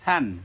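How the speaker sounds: থান with a soft initial Arabic tha; teacher's model of soft থান. Shown as a demonstration. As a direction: say থান softly on the first consonant. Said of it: "নরম হবে".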